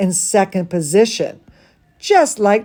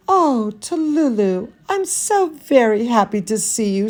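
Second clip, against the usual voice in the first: teacher's greeting. Acted. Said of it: "said her teacher".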